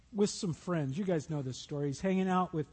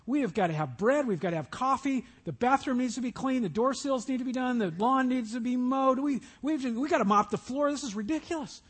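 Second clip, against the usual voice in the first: higher, hurried list of chores; frazzled Martha; 4 semitones higher than usual. Acted. Martha fretting over housework, a touch higher and frantic. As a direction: rattle off jobs like a harried host.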